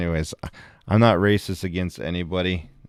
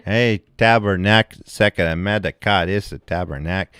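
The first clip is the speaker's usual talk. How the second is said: put-on French Canadian accent. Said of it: "you want some French Canadian bullshit".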